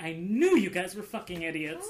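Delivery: extra upset outburst, pitch swinging and swooping all over. Voicing an upset character who scolds the group: voicing an upset character. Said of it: "She's just like".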